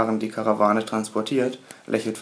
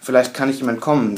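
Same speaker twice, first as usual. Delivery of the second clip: frantic; 2 semitones higher, 6 dB louder than usual. Acted. Panicked thought while fleeing.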